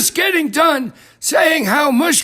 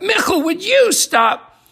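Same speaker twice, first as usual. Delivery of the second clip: exasperated protest; 7 semitones higher, slower than usual. Acted. Interrupting a disgusting story.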